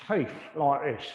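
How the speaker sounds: accidental touch of Cockney; Cockney accent. Real, not acted. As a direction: slip briefly into light Cockney. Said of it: "I did a Cockney accent".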